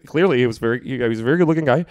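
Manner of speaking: stumbling over his words; flustered, halting repeats; stuttering. Real, not acted. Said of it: "Wow, I'm stuttering".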